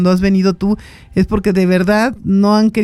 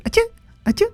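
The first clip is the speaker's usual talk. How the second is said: crow's imitated sneeze; 4 dB quieter, much faster than usual. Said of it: "llega y le hace".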